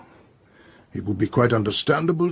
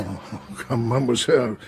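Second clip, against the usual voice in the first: amused chiding. Acted. Detective laughs off maid's denial, amused chiding. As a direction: gently laugh off her denial. Poirot chides the maid, laughing.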